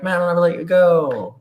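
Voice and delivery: high, swooning mock romantic vow; Titanic movie hero. To his co-host, a hammed-up Titanic lover's vow. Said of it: "it was like Titanic".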